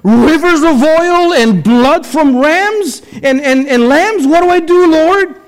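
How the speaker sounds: a desperate worshipper begging what to offer; Micah's plea. Retold or imitated. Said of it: "Micah says".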